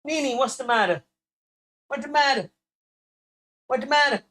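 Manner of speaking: high cooing voice; playful high baby-talk comfort; mock comforting. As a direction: coo it like soothing a crying partner. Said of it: "I've had her in absolute tears".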